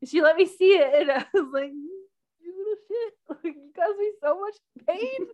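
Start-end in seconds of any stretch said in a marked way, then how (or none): 1.7-5.3 playful high-pitched reproach; mock scolding. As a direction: scold something tiny in a high voice. Acted scolding of the removed device.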